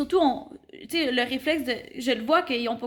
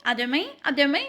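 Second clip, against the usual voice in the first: put-on students echoing "À demain" to tease her accent; mocking Quebec accent. Students behind her mimicking the intern's Quebec accent. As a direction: repeat "à demain" in a teasing imitation of a Quebec accent. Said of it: "je vais entendre juste derrière".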